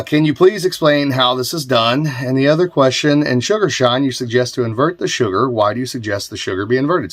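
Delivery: lively read-aloud of a viewer's question; reading viewer mail. Real, not acted. Host reading a home brewer's question aloud, lifted read-out voice. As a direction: read the letter out with a lifted, projected voice.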